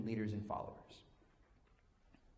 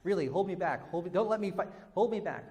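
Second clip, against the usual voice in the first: higher, mock pleading to be held back; higher, hammed-up please-stop-me plea; mock fake brawler; 5 semitones higher, 4 dB louder than usual. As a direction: ham up a guy who secretly doesn't want to fight. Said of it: "when someone wants to get in a fight and they go".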